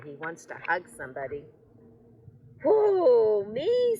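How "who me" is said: high, loud startled hoot; surprised owl. Acted. Owl startled by Hank's hug offer, surprised. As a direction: squeak out shocked disbelief.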